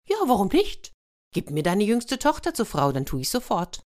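high-pitched, airy little hedgehog; bargaining hedgehog. Acted. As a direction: open very high, then settle into the demand. Hedgehog repeats his bargain.

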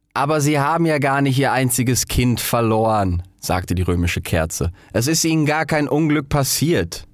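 lightly voiced, matter-of-fact; sober Roman candle. Roman candle corrects the rocket, matter-of-fact. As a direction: point out the obvious.

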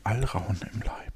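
whispered to herself; whispering. Real, not acted. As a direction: breathe the words softly. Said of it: "rereads phrase to herself".

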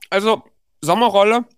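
speaking while chewing; chewing while talking. Real, not acted. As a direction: mouth full of food. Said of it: "ich esse gerade schon so eine leckere Sommerrolle".

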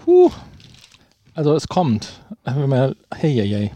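gasping at the chili heat; reacting to a burning mouth; mouth burning from spicy food. Real, not acted. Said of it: "Mein ganzer Mund brennt jetzt".

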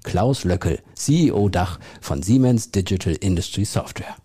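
slow, weighty announcer read; movie trailer voice. Shown as a demonstration. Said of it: "Das mache ich jetzt sogar nochmal".

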